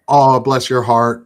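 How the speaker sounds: mock Southern sweetness, drawn out slowly; Southern nice. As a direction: lay on the fake Southern niceness. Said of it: "you'll say the sweetest things".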